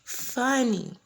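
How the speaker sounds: talking through laughter; laughing. Real, not acted. Telling viewers about the demon laugh, still laughing. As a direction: let the laugh spill into the words.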